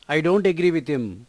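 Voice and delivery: slow, word by word, clearly spaced; slow model sentence. Shown as a demonstration. Teacher to Telugu learners, modelling the English sentence slowly. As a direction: read it slowly for learners to copy. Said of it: "teacher models the sentence slowly".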